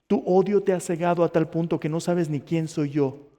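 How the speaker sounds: lightly voiced divine rebuke; stern lesson. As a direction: press each accusation home with measured force. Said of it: "Aquí está la gran lección".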